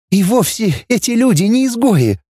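put-on girlish, mildly tearful after sobbing; girl Dana after crying. A narrator's reading. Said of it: "проговорила она, судорожно вздохнув". (девушка после слёз, слегка всхлипывая)

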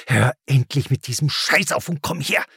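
furious call. A narrator's reading. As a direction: snap at the child to come here. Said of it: "rief sie wütend".

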